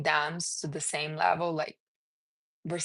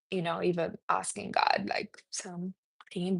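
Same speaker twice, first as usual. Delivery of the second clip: whisper; 5 dB quieter than usual. Real, not acted. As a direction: drop to a secret whisper. Hushed aside about Jesus praying.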